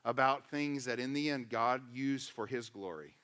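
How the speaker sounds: lightly voiced old psalmist, hushed and soothing; old king calming people. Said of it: "and he goes".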